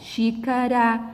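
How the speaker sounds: "xícara" slowly, with a light tap R; R brando. Shown as a demonstration. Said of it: "um som fraco ou brando". ("xícara" pausado, com R fraco)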